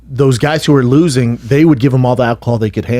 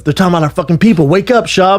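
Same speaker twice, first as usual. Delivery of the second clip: fast, pressing, rising to a higher call; urgent wake-up; 5 semitones higher, faster than usual. Retold or imitated. A fighter shaking a sleeping teammate awake, urgent and fast. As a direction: hurry him awake, worked up. Kimbo waking him, agitated.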